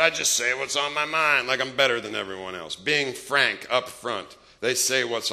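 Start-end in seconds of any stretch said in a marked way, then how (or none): 0.0-2.8 smug know-it-all voice; proud, smug. Retold or imitated. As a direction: puff up like you're better than everyone. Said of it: "Like they're proud of it".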